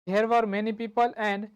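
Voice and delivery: very slow, spaced-out teacher repeat; slowly, so the class can write; slow dictation. Shown as a demonstration. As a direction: dictate it word by word. Dictating the whole translated sentence.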